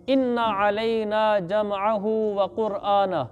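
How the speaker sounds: slow, drawn-out Quranic chanting; Quran recitation. Acted. Teacher reciting the verse to students, slow chant. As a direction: recite each word slowly as tilawat.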